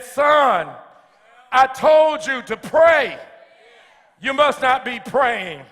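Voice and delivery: a dad who has told him twice already; father scolding. Acted. Father in story scolds the son.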